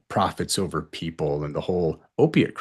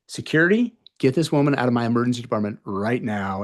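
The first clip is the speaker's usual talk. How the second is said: calling security; 3 semitones higher than usual. Retold or imitated. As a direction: summon security with a sharp command.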